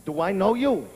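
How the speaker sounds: low, just-woken confused question; mumbly morning confusion at a stranger, pitched low; groggy bewilderment. Acted.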